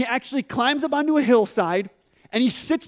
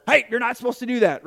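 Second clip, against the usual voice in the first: parent's bark; 3 semitones higher, 4 dB louder, faster than usual. Retold or imitated. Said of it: "they just bark at you".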